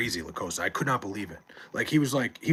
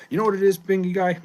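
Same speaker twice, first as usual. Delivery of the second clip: louder and higher, eager to answer; fired up; 8 semitones higher, 7 dB louder than usual. Real, not acted. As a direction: jump in excitedly with the answer. Repeating the question, fired up.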